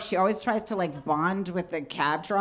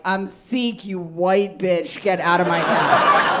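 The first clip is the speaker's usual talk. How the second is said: glaring cab driver; 5 dB louder, slower than usual. Retold or imitated. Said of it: "he's just glaring at her like".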